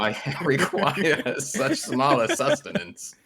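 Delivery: high, loud little gnome with a grand manner; tiny gnome customer. Acted. Gnome asking a vendor for sliders, high and grandly put. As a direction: pipe up high and ceremonious.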